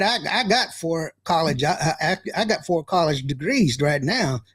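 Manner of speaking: self-mocking country accent. Host joking about having college degrees, country accent. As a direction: play up your own country accent. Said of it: "can you imagine me ta".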